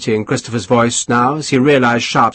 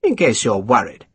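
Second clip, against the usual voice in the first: silkily. Acted. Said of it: "he said silkily".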